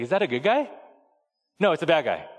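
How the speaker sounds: little daughter. Retold or imitated. Three-year-old daughter chattering.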